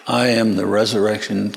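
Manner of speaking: calm, even statement; reply steadily and gently; unruffled assurance. Acted.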